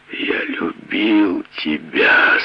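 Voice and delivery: slow, drawn-out moan; groaning. Acted. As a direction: groan the words out in pain. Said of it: "со стоном вымолвил он".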